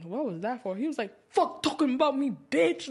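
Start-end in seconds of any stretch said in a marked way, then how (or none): 1.3-2.9 a mild mock yell, half laughing; retold yell. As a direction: imitate him snapping at her, lightly. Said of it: "Like, yelling".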